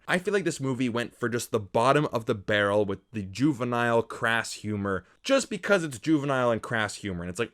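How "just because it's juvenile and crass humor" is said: ordinary talk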